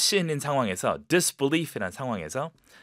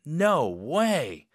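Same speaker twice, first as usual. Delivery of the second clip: excited; 3 semitones higher than usual. Shown as a demonstration. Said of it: "느낌 그대로".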